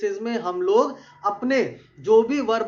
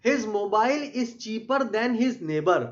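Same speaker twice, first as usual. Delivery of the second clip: slow, deliberate reading of an example; slow dictation; much slower than usual. Shown as a demonstration. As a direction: read it word by word for the class. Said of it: "teacher reads example sentence".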